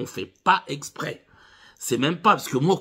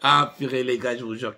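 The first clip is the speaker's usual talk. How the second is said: usual speaking voice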